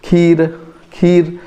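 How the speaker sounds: खीर with a lingering long vowel; long ee demo. Shown as a demonstration. Teacher demonstrating the pause on the vowel, खीर with ee drawn out. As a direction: hold the ee in खीर. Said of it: "यहाँ पे थोड़ा ठहराव आता है".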